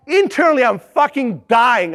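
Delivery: slow, dragged-out inner groan; inner despair. Retold or imitated. Boss privately despairing at intern's calls, slow groan. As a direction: let the panic out slowly.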